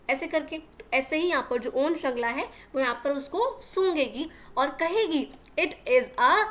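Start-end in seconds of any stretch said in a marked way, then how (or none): 5.6-6.4 calling out "rose" loudly, gladly; cried out. A narrator's reading. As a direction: announce the rose with a joyful cry. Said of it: "she cried". (खुशी से ज़ोर से पुकारना)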